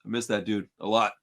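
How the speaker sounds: fighting back tears over a lost friend; choking up. Real, not acted. Remembering his late friend Frankie, choked up. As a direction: voice dropping low as real tears come. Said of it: "I'm gonna start crying".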